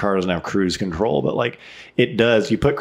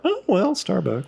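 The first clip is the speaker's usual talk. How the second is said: switching impression voices; 10 semitones higher than usual. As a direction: sigh out the chain name. Mock resigned quote.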